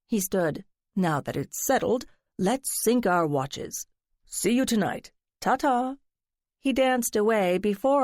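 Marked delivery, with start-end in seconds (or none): 1.0-5.9 lightly voiced theatrical friend, coaxing; a hint of a dramatic gossip fishing for secrets; flamboyant friend. Friend teasing narrator to spill her secret, lightly flamboyant. Lance signing off.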